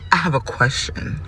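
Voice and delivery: low, soft imitation of him; hesitant quote. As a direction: mimic him asking quietly and tentatively. Acts out his hesitant question.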